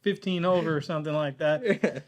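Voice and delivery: a light put-on Texas accent; stereotypical Texas accent. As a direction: driver talking to a cop in a mild mock Texas accent. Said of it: "code switched into a horribly, let's say, stereotypical Texas accent".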